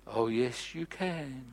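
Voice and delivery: soft, calm voice answering back; preacher voicing God's quiet reply. God's reply in the retold prayer.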